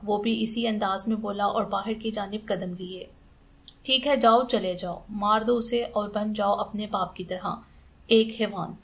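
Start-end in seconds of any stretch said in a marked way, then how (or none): 3.8-8.8 a touch of a shout, then bitter. Acted. Aunt shouting at her nephew as he leaves, bitter. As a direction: hurl the words at him. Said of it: "चीख कर बोली".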